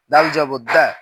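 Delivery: final দ্যা with a short vowel; no stretch. Shown as a demonstration. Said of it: "তখন কোথাও টান দিব না".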